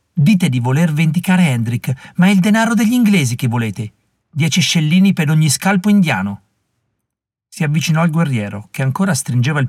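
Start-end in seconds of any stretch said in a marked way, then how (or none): 0.1-6.4 put-on fierce young woman. Molly rebuking the warriors, fierce and scornful. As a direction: shame them for their greed.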